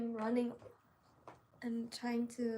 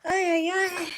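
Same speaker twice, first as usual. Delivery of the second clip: exclaiming; 6 semitones higher, 11 dB louder than usual. Real, not acted. Exclaiming at her sewing work.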